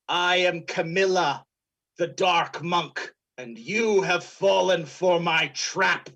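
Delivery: lightly voiced villain, slow and deliberate; slow, measured villainous reveal; dark monk villain. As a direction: announce yourself slowly as the villain. Game master voices villain monk.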